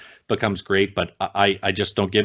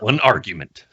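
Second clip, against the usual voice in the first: lightly voiced trailer announcer; a touch of film-tagline delivery. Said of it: "help you with the trailer voice".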